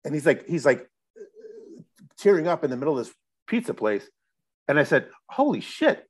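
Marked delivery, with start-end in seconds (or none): 5.3-6.0 stunned exclamation. Retold or imitated. Stunned at news of record deal.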